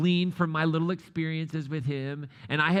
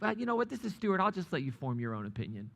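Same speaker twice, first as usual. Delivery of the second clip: evasive politeness; 5 dB quieter than usual. Retold or imitated. Evasive introduction of disliked coworker.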